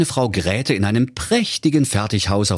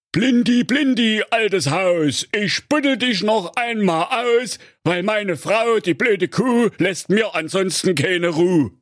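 high, sing-song rhyme to the bomb; husband reciting rhyme; 13 semitones higher than usual. A narrator's reading. Digger driver calling the dud bomb, high sing-song rhyme. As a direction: chant the little summoning verse.

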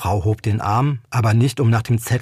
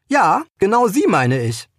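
calling out; 8 semitones higher than usual. Acted. Stranger calls out to Tiller.

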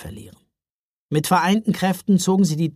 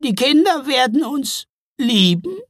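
high, loud wondering question; touched; 10 semitones higher, 6 dB louder than usual. A narrator's reading. Trolls hearing that children will love them, touched. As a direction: ask in moved disbelief, rising at the end. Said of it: "klangen richtig gerührt".

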